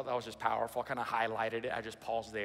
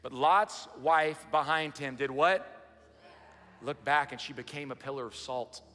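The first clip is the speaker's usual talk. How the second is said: dramatic scripture reading; slower than usual. Acted. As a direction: proclaim the verses slowly to the church. Reads Genesis aloud.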